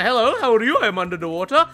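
low, dopey singsong greeting; silly low voice teasing a survivor; under the water meme voice. Pretend. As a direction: put on a dim meme voice, dropping low on the second line.

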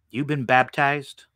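usual speaking voice

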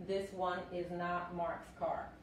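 slow, full unshortened form; careful formal version. Shown as a demonstration. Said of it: "suena un poco más formal".

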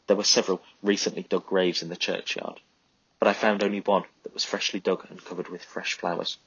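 usual speaking voice

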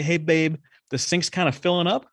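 just hint, don't ask; hinting request. Retold or imitated. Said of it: "If you say".

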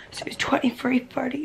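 "twenty-three thirty" whispered, unvoiced and hushed; whispered first take. Real, not acted. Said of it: "no, twenty-three thirty".

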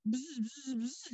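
soft buzzing like a bee. A narrator's reading. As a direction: buzz it softly. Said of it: "dijo la abeja".

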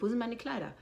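demanding out loud. Retold or imitated. She asks the costume staff out loud for her dresses. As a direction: put the question to them firmly. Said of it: "Ich sag".

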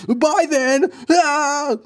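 high, loud startled yelp. Acted. Man startled as the scary guy leaves. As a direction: jump at the sudden exit.

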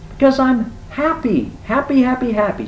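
very high, loud bird voice; high-pitched, repetitive glee; gleeful woodpecker. Acted. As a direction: chirp it out with manic joy. Happy woodpecker answers Rabbit.

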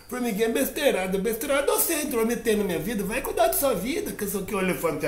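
high, quick huffy little voice; indignant little ant. Acted. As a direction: talk back sharply as a tiny ant. Ant retorting angrily.

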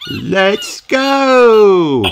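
high, loud rallying cry; excited shout. A narrator's reading. Kylie urges friends on at the beach, shouting. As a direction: cheer them on, far up in pitch.

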